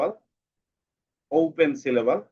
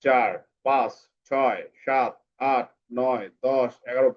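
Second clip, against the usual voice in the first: counting aloud; 3 semitones lower, slower than usual. Shown as a demonstration. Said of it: "কতগুলো letter আছে এখানে".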